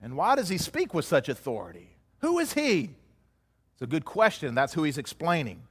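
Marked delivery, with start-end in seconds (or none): 0.0-2.9 higher, stunned questions tumbling out; bewildered onlookers. Retold or imitated. Leaders stunned by Jesus' words ask, lightly acted bewilderment. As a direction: mimic leaders gaping at his words. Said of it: "they're standing there with their jaws on the ground".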